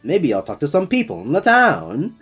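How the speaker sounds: mocking the flat game line; imitating bad line reading. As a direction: parrot the awkward delivery. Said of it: "That line reading was terrible".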